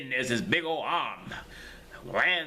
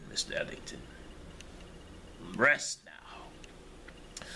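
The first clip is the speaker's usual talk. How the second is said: hushed; 4 semitones lower, 8 dB quieter, slower than usual. Acted. Monk settling the locked-in man.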